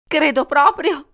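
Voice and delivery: high, slow, acted sob; sobbing. A narrator's reading. Wife confirms the death to police, acted sobbing. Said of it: "singhiozzò lei".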